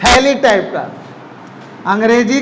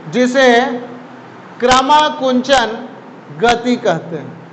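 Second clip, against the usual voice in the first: क्रमाकुंचन said slowly, each syllable clear; slow dictation. Shown as a demonstration. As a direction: spell out क्रमाकुंचन slowly for note-taking. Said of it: "यहाँ लिखा हुआ है board पे". (क्रमाकुंचन धीरे-धीरे, साफ़ बोलकर लिखवाना)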